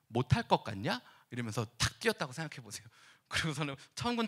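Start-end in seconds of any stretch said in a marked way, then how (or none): 0.1-1.0 cocky retort. Acted. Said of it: "저의 느낌으로 표현하자면".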